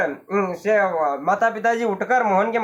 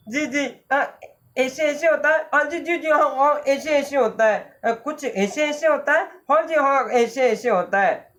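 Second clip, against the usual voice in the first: put-on high sick boy; 4 semitones higher than usual. Sick boy describing pain.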